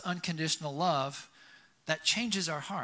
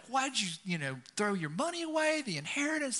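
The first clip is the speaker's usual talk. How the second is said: much higher mock blast; imitated scolding dad; 8 semitones higher than usual. Father could blast his returning son, mock scolding. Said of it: "could blast him like".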